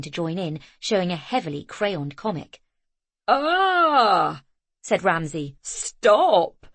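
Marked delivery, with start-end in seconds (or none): 3.3-4.4 startled cry. A narrator's reading. Ramsay overwhelmed by children. 5.6-6.7 laughing stop. A narrator's reading. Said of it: "he was laughing as he said it".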